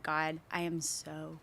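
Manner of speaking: subdued prayer. Retold or imitated. Retold prayer of loneliness.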